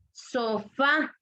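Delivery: "sofá" with weight on "fá"; stress on last syllable. Shown as a demonstration. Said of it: "fuerza de voz en la última sílaba".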